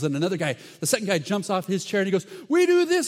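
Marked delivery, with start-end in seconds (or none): 2.5-3.1 high, loud mock boast; hammed-up muscleman. Second guy jumps off his chair, hammed-up loud boast. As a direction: play a bodybuilder showing off.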